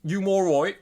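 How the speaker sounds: tossing off a Scouse phrase; mock Scouse. Teasing a friend with a Scouse accent.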